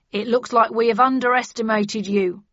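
loud, pleased praise; hearty, approving delivery; happy. A narrator's reading. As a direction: concede it cheerfully. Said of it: "he said happily".

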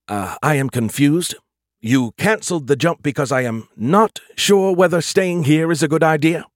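confused AI working it out aloud; confused AI character. Acted. Skippy questioning Joe's cancelled jump, confused.

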